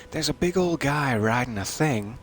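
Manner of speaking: put-on a vague, unplaced accent on "There's a big old guy riding a thing", leaning on "old"; odd unplaced accent. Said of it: "I don't know what accent that was".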